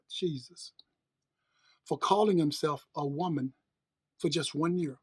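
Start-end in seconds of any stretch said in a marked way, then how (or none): 0.1-0.7 breathy disbelieving whisper under the breath; whispered aside. Real, not acted. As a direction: drop to a near-silent whisper of disbelief. Aside over Jenner award.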